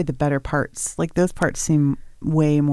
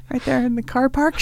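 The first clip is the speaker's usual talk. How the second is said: put-on slipping into British accent; 6 semitones higher than usual. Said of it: "wrong regional accent".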